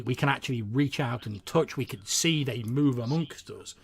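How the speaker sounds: lightly voiced storyteller, animated and emphatic; warming to the subject like a keen bard; eager bard. Bard asking a hero for new tales, eager and enthusiastic.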